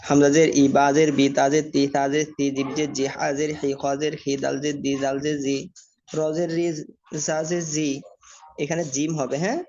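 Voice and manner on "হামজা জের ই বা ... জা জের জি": rhythmic, even-toned letter-by-letter spelling drill; recitation drill. Shown as a demonstration. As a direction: chant out the letters evenly for learners to follow.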